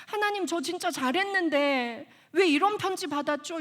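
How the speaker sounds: retold wail to God, only lightly acted; retold tearful complaint. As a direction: plead upward, imitating a hurt cry. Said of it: "이러고 울었어요".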